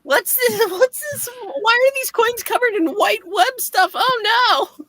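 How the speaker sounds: puzzled then dismayed; surprised. Acted. Surprised character in comic.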